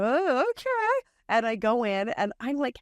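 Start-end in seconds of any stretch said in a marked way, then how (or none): 0.0-1.1 high, slow, timid agreement; a small, drawn-out uncertain okay; timidly going along, high and slow; meek oh okay. Retold or imitated. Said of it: "So I went".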